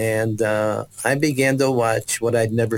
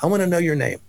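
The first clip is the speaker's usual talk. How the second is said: gentle question; 5 semitones higher than usual. Retold or imitated. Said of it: "she said to me".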